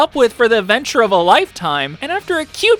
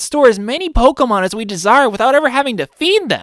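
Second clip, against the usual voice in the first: put-on disappointed kid voice; 4 semitones higher than usual.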